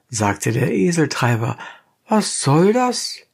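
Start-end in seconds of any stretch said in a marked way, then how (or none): 2.1-3.2 high, rough peasant voice; donkey driver. A narrator's reading. Donkey driver challenging the dentist, high and blunt. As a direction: play the gruff donkey driver, pitched up.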